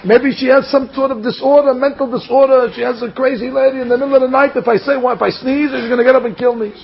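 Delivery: high-pitched, worked-up worrying; mock panic. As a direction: rattle out imagined dangers in rising alarm. Groom imagines bride killing him.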